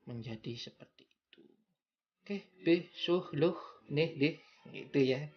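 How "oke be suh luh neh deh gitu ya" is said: clipped Makassar syllable endings; Makassar accent. Shown as a demonstration. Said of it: "ini yang menjadikan logat mereka".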